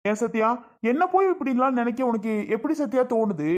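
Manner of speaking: crying and pleading; tearful pleading. Acted. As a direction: plead through tears, hurt. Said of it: "எதுக்கு அழுதுகிட்டு இருக்க".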